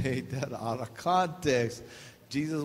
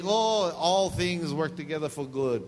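mock cheerful misreading; 3 dB louder than usual. Shown as a demonstration.

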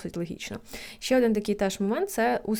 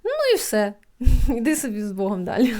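calm self-talk. Retold or imitated. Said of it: "я така думаю".

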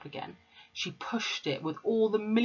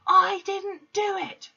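put-on very high, slow, loud child's scream; desperate girl screaming she's innocent; screamed denial; 6 dB louder, slower than usual. A narrator's reading. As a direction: cry out your innocence. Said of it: "she screamed".

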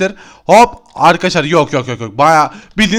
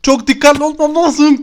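higher, slower sing-song take on "Çok dikkatli olmam lazım"; a playful high, slow self-warning; 7 semitones higher than usual. Real, not acted. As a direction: lift it up high and stretch it slowly like a chant. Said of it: "repeats the line, sing-song".

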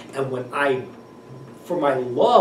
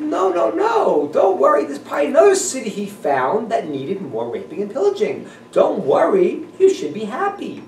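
mock shouting friends; 8 semitones higher than usual. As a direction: shout comfort at the wailing mother. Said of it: "She said".

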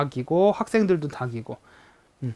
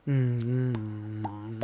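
goldfish mouth sound; 6 semitones lower, 8 dB quieter, much slower than usual. Shown as a demonstration. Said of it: "맨날 이러잖아요".

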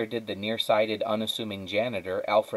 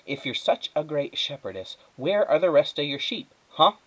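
taunting; 6 semitones higher, 4 dB louder than usual. Acted. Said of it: "Flora always wanted to say".

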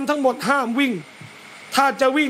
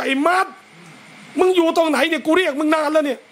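furious call; 4 semitones higher than usual. Shown as a demonstration. Boiling parent hunting for son, angry raised call. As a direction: demand where he is, fed up. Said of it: "ถ้าเดือดจัดๆก็".

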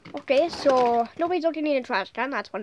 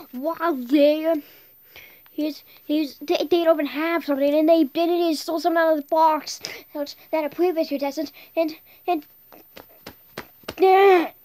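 heated rant; 2 semitones higher, 6 dB louder than usual. Real, not acted. Heated complaint about box thieves.

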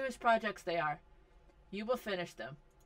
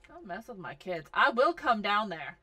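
mock threat; 2 semitones lower, 5 dB louder than usual. Threatening other sims.

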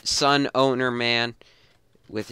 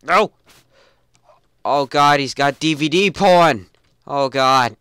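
disgusted; 4 semitones higher, 9 dB louder than usual. Real, not acted. Finds owner's DVD porn.

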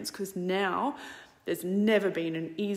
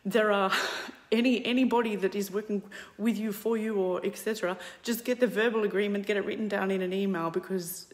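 put-on South African accent. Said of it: "in South African accent".

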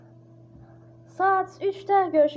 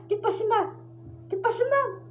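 higher, pleading push away; scared shoo; 5 semitones higher than usual. Real, not acted. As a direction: wave the monster off in fear. Shooing Freddy away.

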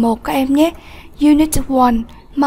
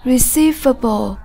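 "Receivable" with the stress on "cei"; second-syllable stress. Shown as a demonstration. Teacher models "Receivable" for the class, stressing its second syllable. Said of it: "Nhấn âm tiết số hai".

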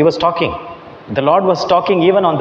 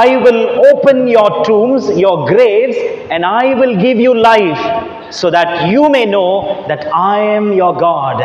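booming voice of God; 3 semitones higher than usual. Acted. Preacher voicing God's promise.

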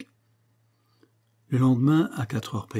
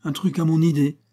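laughing; 6 semitones higher, 5 dB louder than usual. A narrator's reading. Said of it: "Mick se mit à rire".

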